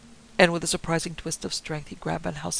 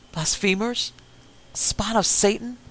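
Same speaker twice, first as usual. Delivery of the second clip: louder, higher outraged cry; old man's shriek; 5 semitones higher, 8 dB louder, slower than usual. A narrator's reading. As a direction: shriek it as a fanatical old minister. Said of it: "the old cracked voice shrieked".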